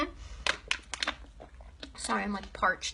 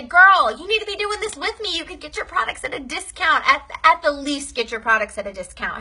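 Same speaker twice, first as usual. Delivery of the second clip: put-on much higher, eager "Girl, you need to be doing this"; enthusiastic pitch; 3 semitones higher, 4 dB louder than usual. Shown as a demonstration. Pitching a happy customer to join, a much higher eager pitch. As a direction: sell it like an excited girlfriend. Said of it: "I want you to say".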